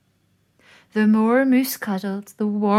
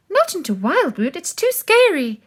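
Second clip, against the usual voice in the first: scared; 9 semitones higher, 5 dB louder than usual. A narrator's reading. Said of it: "said the rabbits".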